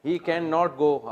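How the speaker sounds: slow, over-separated "can not" in a village accent; mock the villager who splits every sound; rustic Pakistani English. Shown as a demonstration. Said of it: "پینڈو لوگ جب English بولتے ہیں".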